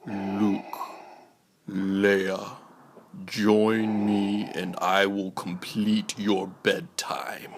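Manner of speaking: menacing whispered command; Vader voice. Acted. Vader commanding his twins to bed, hushed menace. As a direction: loom over them with a hushed dark-lord rasp.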